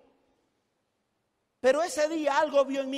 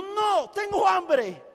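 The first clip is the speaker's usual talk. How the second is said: negativa gritada; 2 semitones higher, much slower than usual. Retold or imitated.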